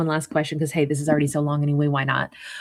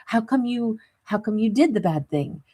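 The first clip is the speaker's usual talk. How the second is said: put-on talking to a kid; 4 semitones higher than usual. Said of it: "try to understand what's going on".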